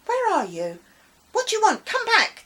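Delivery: high, loud pleading calls; desperate cry. Acted. Boy calling after the vanished lady, desperate. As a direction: call after her, desperate. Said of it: "T G cried".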